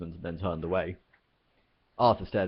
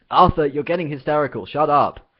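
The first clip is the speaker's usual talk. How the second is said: loud, higher order to shut up; sharp rebuke; 8 semitones higher, 11 dB louder than usual. Acted. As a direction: cut him off hard. Ford silencing panicking Arthur.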